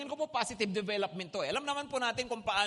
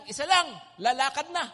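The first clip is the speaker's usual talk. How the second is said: louder barker call, pitch barely raised; barker's new call, "Isa lang" loud but without the high push; lighter mock barker call; 3 semitones higher, 6 dB louder than usual. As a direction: call out the new rule like a barker, less frantic. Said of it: "ang isisigaw na nila".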